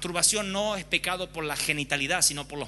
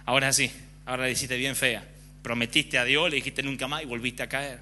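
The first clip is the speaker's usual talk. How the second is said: a lightly voiced sly tempter; Satan's voice; 4 semitones lower than usual. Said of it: "Satanás le dice". (voz baja y astuta de Satanás)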